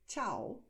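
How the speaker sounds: Ciao with a clear ch sound, chao; Ciao pronounced chao as in Italian. Shown as a demonstration. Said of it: "cuando dices ciao".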